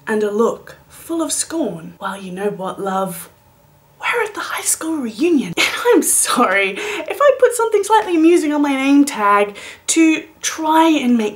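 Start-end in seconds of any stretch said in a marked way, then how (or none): 2.0-5.5 disdainful. Retold or imitated. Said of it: "in a voice full of disdain".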